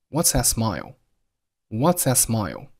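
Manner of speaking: "that" reduced, th dropped, t unreleased; weak THAT. Shown as a demonstration. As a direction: slide quickly through "that" without popping the t. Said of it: "结尾的爆破音T出现了失爆的现象".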